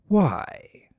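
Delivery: breathless whisper; barely voiced question; a hushed, wondering why. A narrator's reading.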